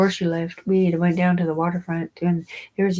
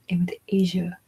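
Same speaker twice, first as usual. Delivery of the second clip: whispered aside. Shown as a demonstration. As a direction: drop into a secret whisper.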